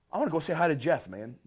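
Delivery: light high-pitched Matt voice; a hint of an excited old bluesman. Friendly older musician asking to say hi, lightly voiced. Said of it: "he's like".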